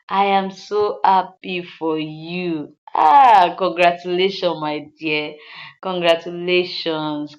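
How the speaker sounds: slow, drawn-out congratulations from a two-faced friend; imitating a backstabber's drawn-out delight; insincere happiness. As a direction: gush slowly without meaning it. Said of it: "happiness that she has that is not from the depth of her heart".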